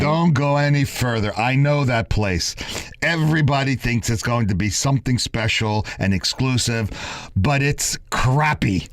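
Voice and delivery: put-on high, scornful Italian Jewish accent. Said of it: "He said it with an Italian Jewish accent".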